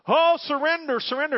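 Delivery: high, loud mock cry of "surrender"; imitating a pushy church lady. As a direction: ham up an old saint urging you on. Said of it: "another one saying".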